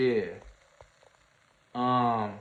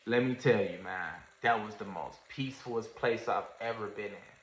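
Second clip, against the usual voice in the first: low, much softer, reverent; hushed awe; 6 semitones lower, 10 dB quieter than usual. Real, not acted. Telling of the black peaceful place, hushed and low. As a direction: drop almost to nothing as you recall the peace. Recalling peace near death.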